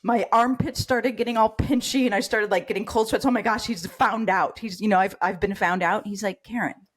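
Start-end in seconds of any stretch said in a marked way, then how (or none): 3.3-6.1 panicked inner voice. Retold or imitated. Her panicked inner thoughts. 6.4-6.9 soft, gentle calling of the name; very gently. Retold or imitated. Mentor gently calming his frightened patient, soft. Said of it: "very gently".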